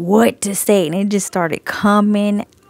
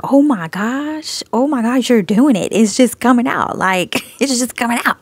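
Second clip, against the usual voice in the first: raised-pitch, giddy disbelief; amazed inner voice, pitched up at first; freaking out; 3 semitones higher than usual. Retold or imitated. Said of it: "like, freaking out".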